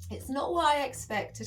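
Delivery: fighting back tears while speaking; choked up and high; welling up. Real, not acted. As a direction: pitch jumps up as emotion catches the voice. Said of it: "for welling up".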